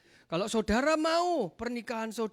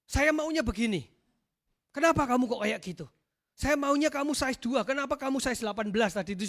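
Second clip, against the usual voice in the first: mock demanding spouse; 6 dB louder than usual. Acting out spouses blaming each other.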